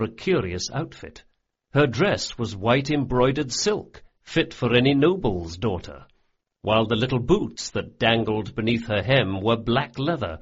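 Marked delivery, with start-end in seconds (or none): none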